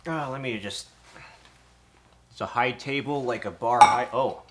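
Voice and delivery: breathless, panting between words; out of breath after standing all day. Real, not acted. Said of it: "I am a little bit out of breath".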